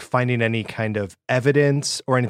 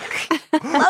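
excited gasp. Pretend. Mock gasp at the discovery.

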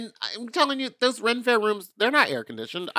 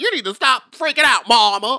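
mock soothing man; 9 semitones higher, 7 dB louder than usual. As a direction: coo at her like a campy friend calming her down. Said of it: "he's over there going".

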